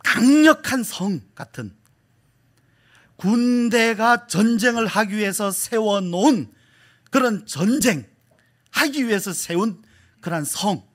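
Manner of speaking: slow, weighty, high and loud explanation; emphatic preaching. Real, not acted. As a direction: hammer out each phrase to the congregation. Preaches with force.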